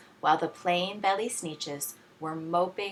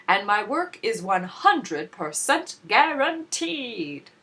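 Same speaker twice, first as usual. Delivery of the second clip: clear keen salesman; 3 semitones higher, 5 dB louder than usual. A narrator's reading. McBean pitching his fix to the unhappy Sneetches, loud and keen. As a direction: sell it like a fast-talking huckster. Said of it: "in a voice clear and keen".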